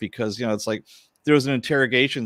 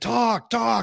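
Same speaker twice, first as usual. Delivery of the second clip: mock screaming, very high pitch, demanding; 13 semitones higher than usual. Retelling a woman screaming at a man in an interrogation room: retelling a scream. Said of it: "she starts out just like screaming at this guy".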